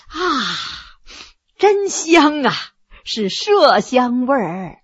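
slow, playful savoring; grinning tease. Acted. Heshen sniffs his hand before his concubine, slow and cheeky. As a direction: drawl it out with a cheeky grin. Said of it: "笑嘻嘻地说".

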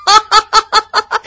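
high, fast roaring laugh; big hearty laugh. A narrator's reading. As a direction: burst out laughing like a huge general. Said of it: "突然哈哈大笑".

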